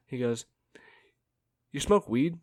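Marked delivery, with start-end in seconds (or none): 1.7-2.4 higher, louder question in a put-on voice. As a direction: call it out loud for all to hear. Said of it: "as loud as he possibly can".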